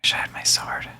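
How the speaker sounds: breathy under-the-breath whisper. Real, not acted. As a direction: mutter it to yourself, unvoiced. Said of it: "whispered aside in the scene".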